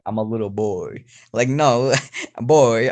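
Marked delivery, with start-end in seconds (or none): 0.0-1.0 mock Kratos-like boy line. Player showing how he won't sound, hammed-up delivery. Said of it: "I don't wanna sound like". 2.4-2.9 louder, mock warrior-father "boy"; lightly hammed-up game hero command; Kratos. Player disowning the impression, mock Kratos voice. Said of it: "trying to be like some Kratos".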